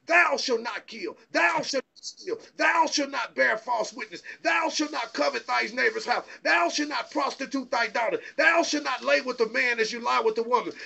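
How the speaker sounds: rising, ringing pulpit cadence, building toward a shout; fiery preaching. Acted. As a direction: preach it hard, hammering each commandment. Preacher building to full force.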